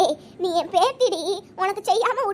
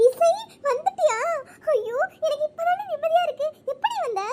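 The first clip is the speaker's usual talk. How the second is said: higher-pitched, delighted greeting; relieved delight; 7 semitones higher than usual. Acted. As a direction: greet a long-awaited loved one with relief. Bride relieved at relative's arrival. (நிம்மதி கலந்த மகிழ்ச்சி)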